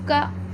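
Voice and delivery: क as a short kuh; letter sound demo; phonic k sound. Shown as a demonstration. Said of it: "ये होता है".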